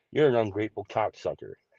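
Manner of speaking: put-on whisper. Retelling what an old timer said up close: imitating a whisper. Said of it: "you wanna whisper this to me?".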